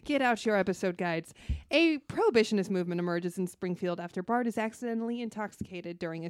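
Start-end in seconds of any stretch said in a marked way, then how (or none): 0.0-1.3 loud, high preacher call to the flock; reverend voice. Pretend. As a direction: proclaim it like a reverend. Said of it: "I always feel like a reverend".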